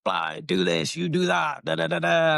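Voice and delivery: mild mock yell, rattling off orders; retold shouting. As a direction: imitate a coach yelling orders, half-hearted. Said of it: "shouting his head off at me".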